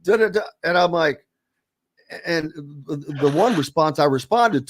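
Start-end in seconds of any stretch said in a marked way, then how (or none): 0.0-0.4 higher-pitched imitation of griping fans; lightly mock a fan's protest, pitched up and tailing into filler; mock fan complaint. Host imitates fans questioning Indiana picks, mock complaint.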